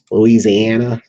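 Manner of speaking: lightly put-on Southern accent. Shown as a demonstration. Software presenter playfully naming a state to dial, Southern accent. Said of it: "That was in my Southern accent".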